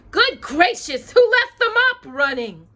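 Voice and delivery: high, loud startled exclamation; fussy fairy spotting the runaway mop in alarm. Acted. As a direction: gasp it out in alarm. Flora startled, eyes widened.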